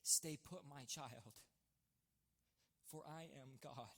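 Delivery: hushed, low divine voice, slowing down; voice of God. Retold or imitated. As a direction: speak softly and slowly as a calming presence. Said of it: "I just hear this presence enter".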